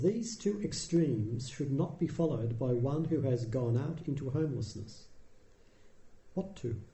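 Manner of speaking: put-on measured recitation of an old text; scripture reading. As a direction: read it like a sacred text, evenly. Reads the Buddha's discourse.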